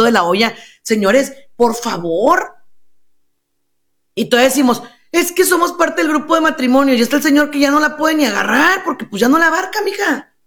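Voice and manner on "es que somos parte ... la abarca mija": higher-pitched, quickening mock protest; mocking exasperation. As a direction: rattle it off higher, ridiculing the excuse. Acted couple's excuse, then mocking it.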